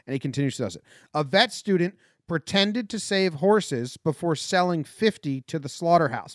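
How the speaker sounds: punchy headline opening, easing into conversational news; news headline read. Acted. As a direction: read offbeat stories out like an anchor. Rewords and reads more headlines.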